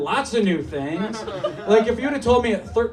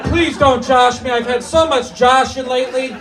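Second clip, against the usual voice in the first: mock pleading; 4 semitones higher, 4 dB louder than usual. Begging the crowd not to tease.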